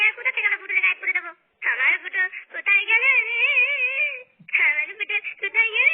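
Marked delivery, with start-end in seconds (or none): 1.7-5.9 tearful wail for her missing husband; a wife breaking into sobs; crying wife. Acted. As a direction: wail it through tears, calling for him. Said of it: "বৌমা, তুমি কান্না করো না বৌমা".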